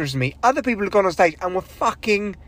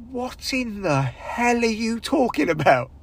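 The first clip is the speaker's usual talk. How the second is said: imitating Homer; 4 semitones higher, slower than usual. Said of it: "And he just goes".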